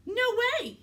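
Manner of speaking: loud, high blurt of protest; shouted refusal; blurted outburst. A narrator's reading. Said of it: "he blurts".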